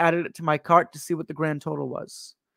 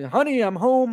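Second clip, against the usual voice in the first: higher, sing-out greeting; cheery homecoming call; 5 semitones higher than usual. Retold or imitated. Man arriving home to his girl with the watch, cheery call.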